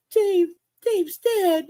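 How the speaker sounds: high and slow, drawn out in disbelief; stunned mock-mourning, stretched out; slow grieving wail. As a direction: let the words drag with grief. Repeats despair, slower.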